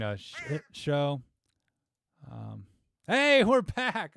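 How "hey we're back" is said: loud, high, stretched-out greeting; excited. Real, not acted. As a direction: shout it out with big relief. Stream comes back on.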